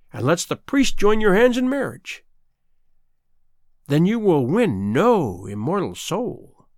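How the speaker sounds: sinister, taunting sea witch. Acted. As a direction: menace her, the wicked witch. Sea witch in fairy tale.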